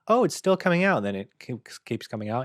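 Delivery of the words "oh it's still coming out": shocked. Retold or imitated. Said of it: "you're like".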